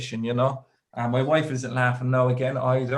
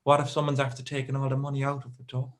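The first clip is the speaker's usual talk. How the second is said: imitating a fretting wife, rushing in bursts; hurried worry, lightly acted; mild retold panic; faster than usual. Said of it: "kind of panicking".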